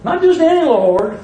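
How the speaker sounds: "Not just any" pitched high, rising at "Lord"; high, emphatic "Not just any Lord"; contrastive stress. Shown as a demonstration.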